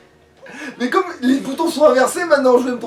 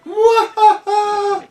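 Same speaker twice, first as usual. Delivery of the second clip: bitchy voice. Acted. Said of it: "je fais quand même la voix de pétasse".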